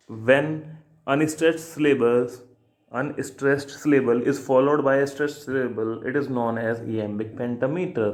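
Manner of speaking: slow, deliberate note-taking pace; slow dictation. Shown as a demonstration. Teacher dictating a poetry rule to exam students slowly.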